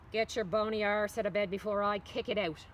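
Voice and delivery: put-on a loud, bossy mother barking at a lazy kid; mother's wake-up yell. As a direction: roust her out of bed like Mama. Mother rousing daughter in story.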